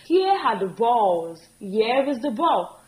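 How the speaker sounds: slow paired model lines; slow teacher contrast; slow contrast demo. Shown as a demonstration. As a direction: set both forms side by side slowly. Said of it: "singular and we have it in plural".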